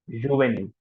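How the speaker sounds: Juvénile as zhoo-vay-NEEL; Juvénile in French, falling at the end; French pronunciation. Shown as a demonstration. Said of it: "That's how the pronunciation is".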